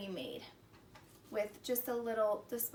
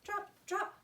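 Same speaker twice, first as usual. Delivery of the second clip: playful drops; 7 semitones higher than usual. A narrator's reading. Drops falling.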